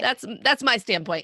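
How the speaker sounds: laughing through the words. Real, not acted. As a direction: chuckle while stating it. Joking after a teasing answer.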